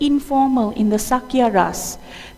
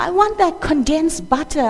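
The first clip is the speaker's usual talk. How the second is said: put-on crying child; 4 semitones higher than usual. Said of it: "This is crying, he's pointing".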